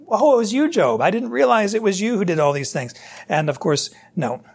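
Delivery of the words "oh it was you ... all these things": higher, mock-surprised sarcasm toward Job; a teasing, pretend-amazed God; mock sarcastic surprise. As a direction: feign surprise, dripping with sarcasm. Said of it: "a mocking, scornful tone".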